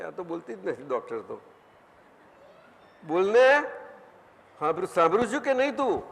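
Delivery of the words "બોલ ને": louder, higher urging to speak; coaxing call. Real, not acted. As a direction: nudge her to speak up. Urging a shy questioner.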